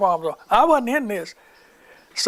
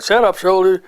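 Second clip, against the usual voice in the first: snapping shout; 6 dB louder than usual. Retold or imitated. Dentist snapping at patient.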